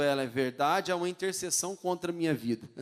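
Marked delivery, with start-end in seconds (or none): 0.0-0.9 mock agreement. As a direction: drag out a sympathetic yes. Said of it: "o outro".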